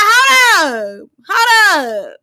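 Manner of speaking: high, loud mock holler; imitated loud interruption. Host imitating Mal cutting in on a question, hammed-up shout. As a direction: holler it like someone halting the whole room.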